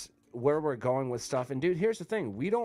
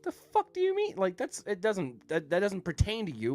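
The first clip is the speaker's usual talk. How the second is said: indignant retort; 7 semitones higher than usual. Retold or imitated. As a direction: blurt it out in disbelief, then drag it. Retelling outrage at HR question.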